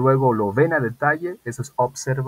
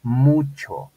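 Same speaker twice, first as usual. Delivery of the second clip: each word drawn out slowly and loudly; slow model sentence; 2 semitones higher, 4 dB louder, much slower than usual. Shown as a demonstration. Teacher dictating to students, very slow and louder. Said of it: "Quiero decir que".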